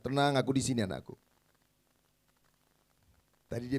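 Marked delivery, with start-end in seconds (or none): 0.0-1.1 calm reassurance. Retold or imitated. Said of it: "Maminya bilang".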